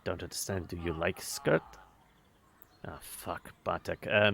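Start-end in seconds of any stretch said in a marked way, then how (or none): 0.0-1.6 syrupy fake politeness, dropping low; a mock-polite jeer; mockingly polite. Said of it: "a clear mockingly polite". 2.9-3.5 cursing under the breath, very soft; a very soft, low curse; muttered curse. Acted. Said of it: "murmured under his breath".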